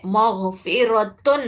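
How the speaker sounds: slow مغفرتن with drawn nasal end; recited with ghunna. Shown as a demonstration. Teacher recites the word for students, slow nasal end. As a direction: stretch مغفرتن, humming the final نون. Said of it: "جس میں ایک نون کی آواز ہے".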